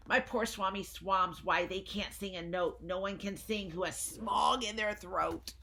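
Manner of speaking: mildly voiced Lorax mourning; lightly voiced Lorax. Lorax lines read to children.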